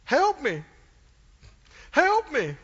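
repeated begging. Retold or imitated. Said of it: "how many times do I need to say that".

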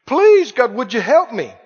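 acted plea rising on the third "please"; imitated begging. People grabbing Jesus by the leg, imitated begging. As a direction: beg harder with each "please". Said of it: "they grabbed his leg and said".

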